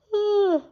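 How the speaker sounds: high, drawn-out yawning sigh. Real, not acted. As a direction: let a yawn escape mid-talk.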